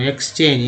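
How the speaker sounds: "एक्सचेंज" with a voiceless ks. Shown as a demonstration. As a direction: say the start of "एक्सचेंज" as "eks". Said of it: "यहाँ पर एक्स उच्चारण हुआ". ("एक्सचेंज" में "एक्स" की ध्वनि)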